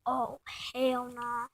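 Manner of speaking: slow, breathless whisper of dismay. Real, not acted. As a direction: whisper it slowly, scared of being caught. Realizes trouble, sneaking out.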